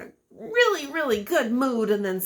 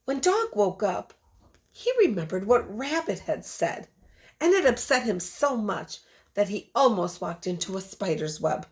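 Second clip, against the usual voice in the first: put-on lively read-aloud voice for a class of children; storybook reading. Teacher reading a picture book to her class, storytelling voice. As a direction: tell the story to the kids with expression.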